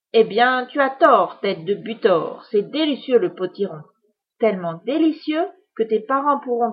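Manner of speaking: wicked witch savouring her threat; gloating witch. Acted. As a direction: relish scaring the boy. Witch gloats over potiron.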